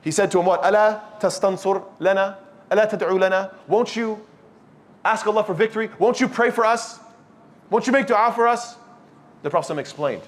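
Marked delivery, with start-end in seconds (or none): 0.7-8.8 a hint of desperate pleading, higher; pleading companion. Khabbab pleading with the Prophet for victory. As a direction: beg the Prophet for help.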